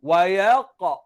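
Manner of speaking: slow "Wa yaqa" with ya-o glide; rounded o sound. Shown as a demonstration. Teacher repeats the spelling aloud, slow rounded "Wa yaqa". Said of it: "Dia bunyi o".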